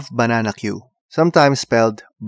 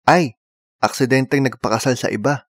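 mild oops. Retold or imitated. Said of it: "preface a mild accident".

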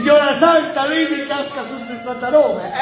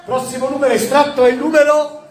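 bingo caller. Real, not acted. Calls tombola numbers.

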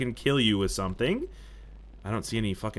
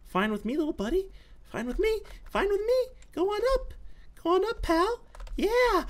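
much higher, sing-song pet voice. Real, not acted. Player cooing at a bug that flies away, high pet voice. Talking to a creature escaping.

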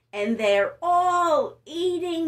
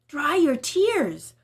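comforting Elijah; 2 semitones higher, slower than usual. Acted. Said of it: "Elijah said".

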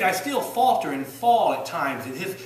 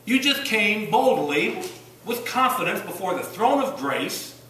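louder, slow and emphatic; slow, bold preaching; 4 semitones higher, 5 dB louder, slower than usual. Acted. Preacher to congregation, slow and bold. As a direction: lay each word down with weight.

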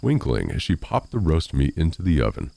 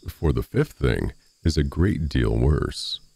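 slow, ominous hint; 2 semitones lower than usual. Acted. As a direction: drag it out to tease. Farmer teases ominously.

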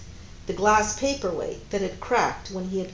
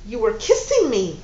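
louder accusing stress on kissing; 6 dB louder than usual. Acted. Woman accusing her lover, stress on kissing. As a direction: throw the charge back at him. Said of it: "she said accusingly".

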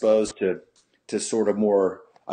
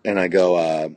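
usual speaking voice

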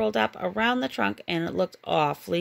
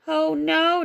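mock scream; 7 semitones higher, 4 dB louder than usual. A narrator's reading. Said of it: "Donald screamed".

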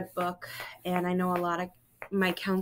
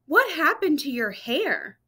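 mock yell; 7 semitones higher, 4 dB louder than usual. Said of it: "That's when Joey yelled".

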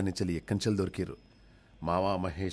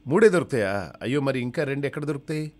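dismayed patient; 7 semitones higher, 8 dB louder than usual. Acted.

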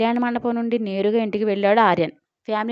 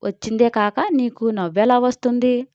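shouting. Acted. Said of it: "అరిచింది జయగారు".

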